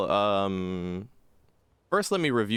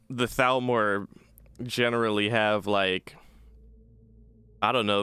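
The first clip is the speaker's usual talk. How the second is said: normal talking voice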